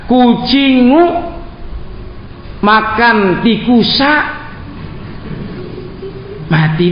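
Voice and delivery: "kucingu" with an added Arabic -u ending and "tikusa" with an added -a ending; "kucingu makan tikusa mati" with the endings clearly sounded; mock case endings. Shown as a demonstration. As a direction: Indonesian words given Arabic case vowels, "kucingu" and "tikusa". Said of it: "nggak ada doma fathahnya".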